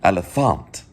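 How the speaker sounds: "Elefant" ending in -ahnt; German E. Shown as a demonstration. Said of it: "it doesn't sound German, but".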